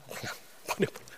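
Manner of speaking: breathy whisper, almost unheard; whispered aside. Real, not acted. Pastor whispering a quick tip to the congregation. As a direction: drop to a secret whisper. Aside advice about cult texts.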